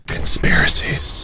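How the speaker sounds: slow, hushed stage whisper; spooky whisper. Pretend. Host announcing the real topic at hand, spooky slow whisper. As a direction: whisper it slowly like a mysterious title.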